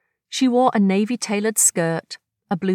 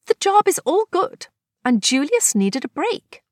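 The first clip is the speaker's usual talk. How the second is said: lighter, higher voice for Agnes; Agnes voiced; 10 semitones higher than usual. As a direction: play her breezy and chatty. Agnes character voice, high.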